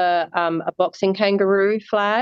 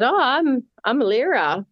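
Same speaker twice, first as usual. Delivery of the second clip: retold intro; 5 semitones higher than usual. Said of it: "like that".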